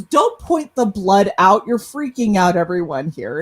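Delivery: retold exasperated telling-off; scolding mom. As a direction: imitate a mother hushing an embarrassing kid. Mom scolds the bleeding kid.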